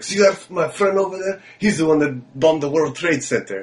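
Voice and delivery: slow, lightly voiced mechanic. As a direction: imitate a mechanic pointing out his friend, deliberately paced. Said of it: "he also told me".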